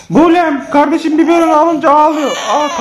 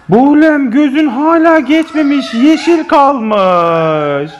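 mock dismay; much slower than usual. Pretend dismay at the uncovered eye.

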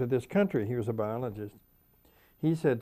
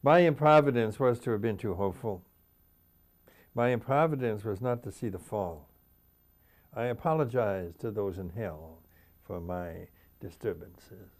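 poem recitation. Acted. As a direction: begin strong and let each line sink. Reads own poem aloud.

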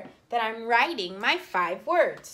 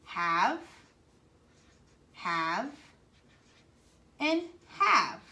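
slow tracing voice; slower than usual. Shown as a demonstration. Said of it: "I want you to rainbow write".

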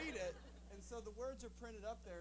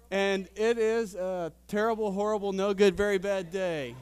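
mock dramatic wail; 17 dB louder than usual. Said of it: "yell it, scream it, cry it".

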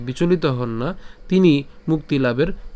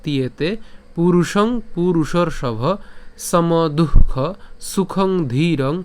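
slow, measured Sanskrit shloka; deliberate teaching recitation; full verse recitation; much slower than usual. Shown as a demonstration. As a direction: recite the whole verse in drawn-out, separated phrases. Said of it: "প্রথম থেকে যদি বলি".

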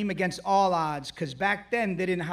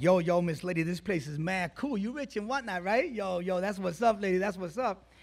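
put-on teen New York street accent; 2 semitones higher than usual. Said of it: "that's how I used to sound back then".

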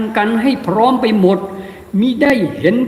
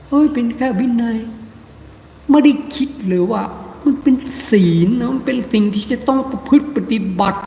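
mock careless monk; 3 semitones higher than usual. Monk voicing careless monks.

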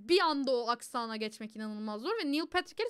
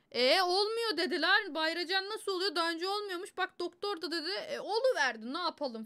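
mock confused viewer; 4 semitones higher than usual. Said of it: "şey diyorsun".

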